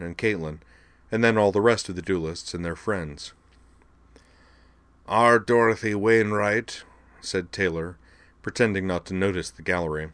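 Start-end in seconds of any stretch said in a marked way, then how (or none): 5.1-6.8 stately, measured official address; formal judge voice. A narrator's reading. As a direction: proclaim the name like a court officer.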